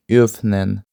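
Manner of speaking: öffnen with a rounded German ö; German word demo. Shown as a demonstration. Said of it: "І воно читається як". (öffnen з німецьким ö)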